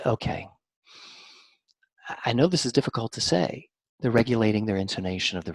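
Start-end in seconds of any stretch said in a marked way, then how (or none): 0.0-3.7 gentle. Retold or imitated. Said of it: "the people who said".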